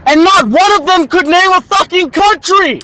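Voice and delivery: high, loud incredulous rant; exasperated outburst. Real, not acted. Student venting about a stupid class video, exasperated. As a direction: burst out in disbelief, pitch way up.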